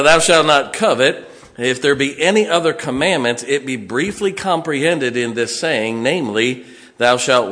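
booming KJV verse; loud scripture reading. Acted. Preacher reading the commandments aloud to his congregation, loud. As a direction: proclaim the commandment to the hall.

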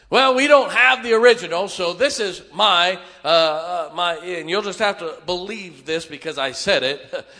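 loud, smug know-it-all tone; cocky know-it-all. Retold or imitated. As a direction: puff up and lecture like you know best. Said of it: "Cocky's when you start saying".

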